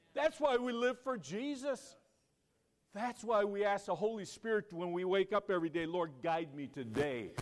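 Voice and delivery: high, loud pulpit cry; impassioned preaching. Real, not acted. Preacher rousing the church to live for Jesus, impassioned shout. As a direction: drive it out to rouse the church.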